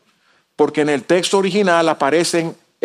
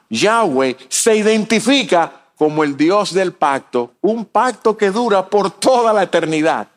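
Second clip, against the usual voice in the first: raised, higher preaching voice; impassioned preaching; 4 semitones higher than usual. Real, not acted. Preacher consoling believers about the dead, impassioned preaching. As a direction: preach it with rising conviction. Preacher builds to full force.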